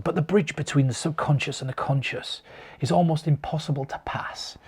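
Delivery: hushed, dreamy stage-mentalist patter, only slightly put on; a hint of a breathy mind-reader hamming it up; old mentalist voice. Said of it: "I used to talk like that, and I used to put on this accent".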